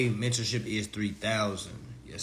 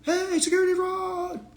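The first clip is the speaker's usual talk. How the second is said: very high, sing-song calling out; cartoonish high voice, tossing off claims; mock naive filer; 4 dB louder than usual. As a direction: blurt the claims like a clueless filer. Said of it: "You just said".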